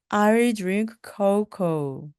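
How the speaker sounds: slow, careful model sentence; deliberate classroom pronunciation; slow teaching drill. Shown as a demonstration. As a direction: say it slowly. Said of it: "slow model sentence".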